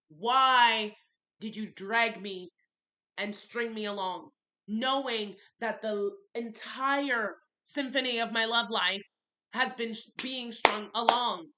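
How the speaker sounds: loud, slow, drawn-out accusing question; loud, drawn-out "Why did you drag me" as she confronts him; real angry outburst. Real, not acted. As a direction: unload the anger slowly. Confronting him over being strung along.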